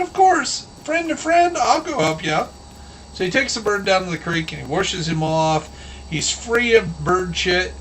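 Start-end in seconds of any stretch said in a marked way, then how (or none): 0.0-2.5 high-pitched friendly animal voice; hammed-up reassurance, pitched up; obliging fable wolf. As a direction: offer help in a put-on cartoon voice. Wolf reassures the bird, acted.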